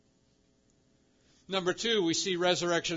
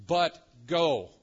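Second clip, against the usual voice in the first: firm, louder order; commanding; 5 dB louder than usual. Acted. Angel sends the women out, commanding. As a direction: punch "But go" as an order. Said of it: "is given like a command".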